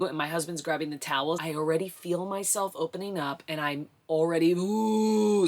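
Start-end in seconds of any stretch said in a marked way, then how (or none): 4.5-5.5 pushing groan. Retold or imitated. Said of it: "starting to push".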